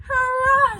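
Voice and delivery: very loud, high hurrah; triumphant shout. A narrator's reading. Boy spotting the shape at last, shouting hurrah. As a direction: fling the cheer out with delight. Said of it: "shouted George".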